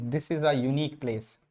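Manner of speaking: very slow, word by word; write-along pace for students; slow dictation. Shown as a demonstration. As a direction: dictate the sentence slowly. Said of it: "जैसे मैं example के लिए लिखूं".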